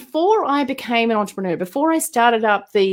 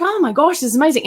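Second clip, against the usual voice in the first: excited; 5 semitones higher, faster than usual. Retold or imitated. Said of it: "I was like".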